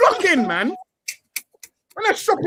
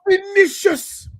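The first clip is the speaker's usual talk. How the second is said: slow, drawn-out relish; slow relishing delicious; savoured; 4 semitones higher, much slower than usual. Real, not acted. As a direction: stretch it out tasting the word. Savouring the news.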